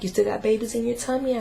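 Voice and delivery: a hint of a curious toddler asking; little son's question. Mother voices her little son.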